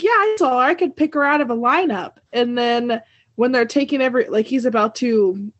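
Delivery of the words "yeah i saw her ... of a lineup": eager witness. Pretend. A human sacrifice eagerly offering testimony, excited. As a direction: blurt it out like a keen witness.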